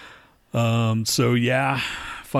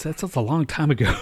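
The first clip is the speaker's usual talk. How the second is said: laughing; 4 semitones higher than usual. Retold or imitated. Retold answer with laugh.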